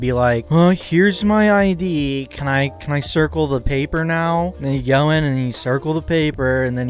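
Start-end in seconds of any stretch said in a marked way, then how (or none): 0.5-4.5 drawn-out, higher mock-timid voter; put-on voter voice. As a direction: play an over-eager voter, slowly. Acting out a meek voter.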